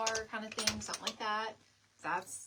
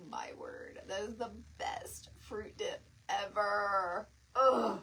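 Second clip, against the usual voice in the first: mock swoon; 4 dB louder, slower than usual. Real, not acted. Swooning over fruit dip.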